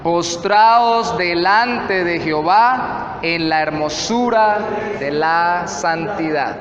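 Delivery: slow, emphatic reading of the verse; scripture reading. Acted. Pastor repeats the last phrase for the congregation, slow scripture reading. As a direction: repeat the verse slowly, weighing each phrase.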